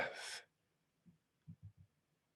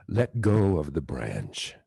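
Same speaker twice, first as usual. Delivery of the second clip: much lower, slow godlike order; heavenly voice command; 6 semitones lower, 3 dB louder than usual. Retold or imitated. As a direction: command from above, slow and deep. Voice from the sky commands.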